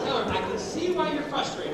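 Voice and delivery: soft, understanding model line; calm empathy. Shown as a demonstration. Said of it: "give her the recap".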